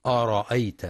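أرأيت said with a thickened, dark hamza; heavy hamza. Shown as a demonstration. Teacher warning listeners, أرأيت with heavy hamza. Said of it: "فلا يقرأ".

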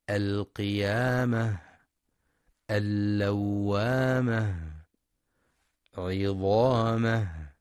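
slow, each word closing on a clear breathed ه; whispered final ha. Shown as a demonstration. Teacher shows listeners the breathed final ha in verse endings. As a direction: end القيامة, اللوامة, عظامة with an audible breathy ه. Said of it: "لهمس الهاء في رؤوس الآيات".

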